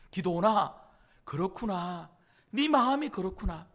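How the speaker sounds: low, softened, understanding voice; gentle persuasion. Acted. God accepting Gideon's heart instead of scolding, gently persuading. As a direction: acknowledge his feelings gently, unhurried. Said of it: "기도원을 설득하고 있는 거예요".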